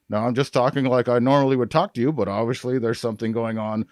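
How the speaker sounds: words pushed out past pinched lips; talking with lips held. Shown as a demonstration. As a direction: hold your lips and just chat. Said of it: "hold your lips".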